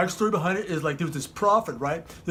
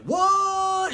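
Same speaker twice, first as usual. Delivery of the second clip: very high squeal of disbelief; comic high-pitched shock; astonished; 14 semitones higher than usual. Acted. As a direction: shriek it in mock astonishment. The others astonished that David volunteers.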